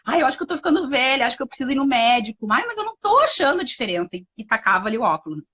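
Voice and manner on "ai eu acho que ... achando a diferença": pretend failing eyesight.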